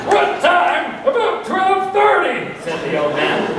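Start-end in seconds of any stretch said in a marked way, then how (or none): 0.1-2.4 put-on excited old man.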